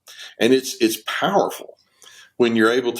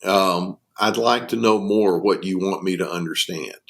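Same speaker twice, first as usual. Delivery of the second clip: low-key gentle reassurance, slightly lowered voice; 4 semitones lower than usual. Acted. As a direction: respond gently, inviting them to say more. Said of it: "That's, that's gentle".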